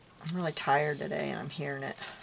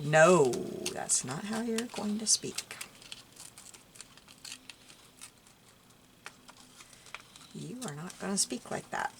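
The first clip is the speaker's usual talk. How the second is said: correcting grandma; 2 semitones higher than usual. Retold or imitated. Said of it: "she'd be knocking it out of me".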